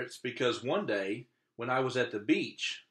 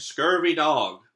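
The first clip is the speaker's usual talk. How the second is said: slow, loud pirate insult; pirate talk; 3 semitones higher, 8 dB louder, slower than usual. Acted. Boy showing off pirate words, slow and loud. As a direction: growl it out slowly like a pirate. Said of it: "real pirate stuff like".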